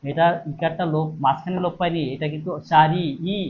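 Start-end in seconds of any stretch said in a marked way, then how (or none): 2.7-3.4 চারি, then its final ই repeated alone; final-vowel demo. Shown as a demonstration. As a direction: sound out চারি and isolate the closing ই. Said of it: "ইটা শেষে উচ্চারণ হচ্ছে". (চারি-র শেষের ই আলাদা করে উচ্চারণ)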